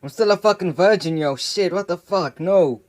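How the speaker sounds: retelling his panic at dying, a touch of fake crying; mock crying. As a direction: whimper out a pleading protest. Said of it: "I started crying".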